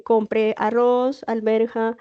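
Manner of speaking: slow, spaced-out shopping list; dictated grocery list. Shown as a demonstration. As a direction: read the list out slowly, item by item. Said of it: "Cuando uno dice".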